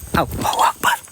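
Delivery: real hushed prayer; whispered prayer. Real, not acted. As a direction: breathe the prayer under the breath.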